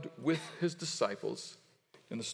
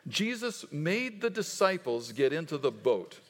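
leading group recitation. Shown as a demonstration. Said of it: "Would you say that with me?".

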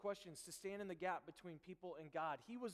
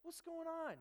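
retold dismay, climbing higher and lighter; baffled disbelief; 5 semitones higher, 4 dB louder than usual. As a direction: sound stunned that your best leader would quit. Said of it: "And I'm like".

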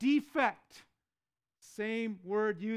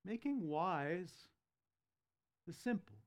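slow emphasis; 6 dB quieter than usual. Acted. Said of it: "notice the effect".

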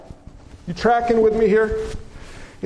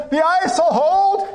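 confident hunter; 8 semitones higher than usual. Acted. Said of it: "The third man says".

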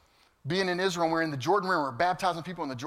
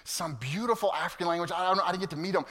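ordinary delivery

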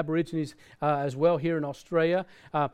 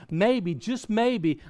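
slow emphatic pause; 4 semitones higher, much slower than usual. Real, not acted. Preacher slows for emphasis.

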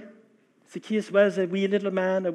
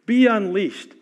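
louder call; 2 semitones higher, 5 dB louder, slower than usual. Real, not acted. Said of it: "Friends, un-, be unleashed".

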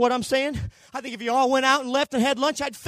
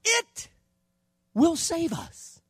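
eager Israelites; 9 semitones higher, 4 dB louder, slower than usual. Retold or imitated. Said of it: "They said".

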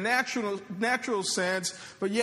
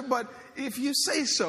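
reluctant agreement; 6 semitones higher than usual. Acted. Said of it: "adding my own kinda inflection on that".

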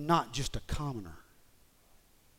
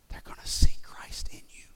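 sudden loud burst; 12 dB louder than usual. Real, not acted.

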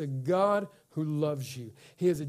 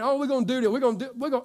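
mock boasting; 6 semitones higher, 3 dB louder, much faster than usual. Mocking people who just talk.

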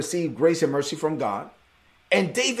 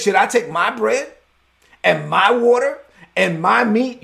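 mean man's talk; 4 semitones higher, 4 dB louder than usual. Retold or imitated. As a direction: play a scornful man hammering each possession. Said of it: "You ever met somebody that talks like that?".

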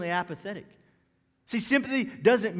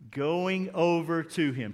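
slow group reading; 3 semitones lower, slower than usual. Shown as a demonstration. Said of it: "Read this with me".

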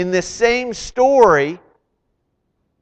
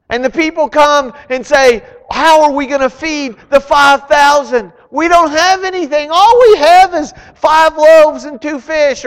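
loud, high, driving sermon voice; preaching at full force; 9 semitones higher, 7 dB louder than usual. Acted. Preacher rallying the congregation with Jesus' slogan, fired up. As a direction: build the crowd up, pressing hard.

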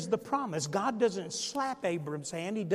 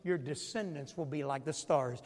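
hushed, softer promise, voice still there; God whispering; 4 semitones lower, 6 dB quieter than usual. Acted. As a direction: lean in and confide the promise. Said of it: "And God whispers and says to Abram".

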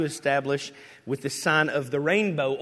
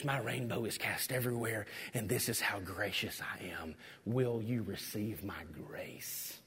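much softer tender invitation fading to a whisper; hushed God voice; 6 semitones lower, 13 dB quieter than usual. Acted. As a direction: let God speak gently, almost whispering. God voiced gently in sermon.

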